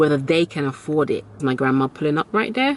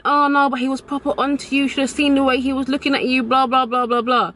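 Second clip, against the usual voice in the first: gushing friend; 8 semitones higher, faster than usual. Retold or imitated. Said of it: "my friend kept saying".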